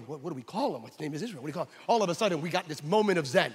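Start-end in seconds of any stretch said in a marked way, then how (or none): 0.0-1.7 puzzled whisper. Retold or imitated. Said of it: "John and I are going".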